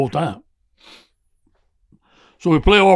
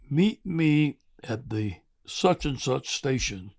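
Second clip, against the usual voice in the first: secretive whisper; 6 dB quieter, slower than usual. Retold or imitated. Retelling a secret instruction.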